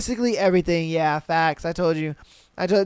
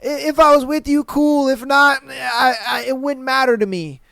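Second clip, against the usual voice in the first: a touch higher, noncommittal take-it-or-leave-it; mock shrug in the voice; acted indifference; 4 semitones higher than usual. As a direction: lightly imitate someone who couldn't care less. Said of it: "how she truly feels about you is she's like".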